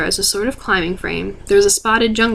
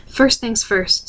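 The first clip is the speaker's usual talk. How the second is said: brisk; 2 semitones higher, much slower than usual. Acted. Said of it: "said Miranda briskly".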